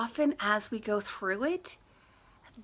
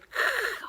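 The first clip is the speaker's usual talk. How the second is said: short breathy whoosh; quick burst of breath for a sudden flare; imitated flare-up sound. Imitates stress suddenly flaring up.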